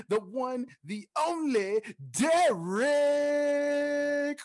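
rising hype build to the name; grand entrance announcement. Acted. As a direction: crescendo into the name. Introduces cohost grandly.

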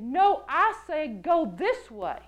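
slow, lightly authoritative correction; a measured hint of fatherly authority; firm fatherly voice. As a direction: overrule gently but firmly, drawing it out. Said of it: "very authoritative sound to the voice".

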